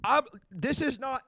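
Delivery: loud, high, insistent interruption; exasperated objection. Real, not acted. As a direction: cut in forcefully to stop everyone. Host suddenly objects, cutting in.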